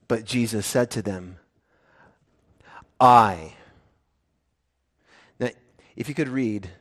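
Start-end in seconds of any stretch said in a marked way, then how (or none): 3.0-3.5 weighty, low, punched I; emphatic. Shown as a demonstration. Preacher stressing the emphatic pronoun to his congregation, emphatic. Verse quote, emphatic position.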